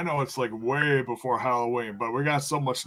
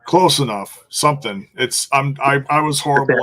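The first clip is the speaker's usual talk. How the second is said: loud joking excuse; 2 semitones higher, 8 dB louder than usual. Real, not acted. Laughing off his mistake loudly.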